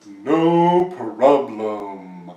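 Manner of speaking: very drawn-out, croaky frog reply; frog mother-in-law. A narrator's reading. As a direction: stretch each word like a slow frog. Frog mother-in-law's catchphrase reply.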